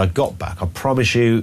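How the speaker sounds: ordinary talk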